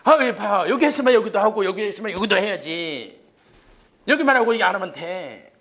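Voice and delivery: loud, high-pitched playful scolding; mock indignant badgering. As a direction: push the class to agree, loud and insistent. Teacher mock-badgering the class to agree.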